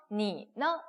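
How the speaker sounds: 니 held, then 너 short and light; 니, 너 with a light, toneless 너; neutral tone demo. Shown as a demonstration. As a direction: let 너 drop lightly after a long 니. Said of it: "경성이니까 가볍게 읽어주시면".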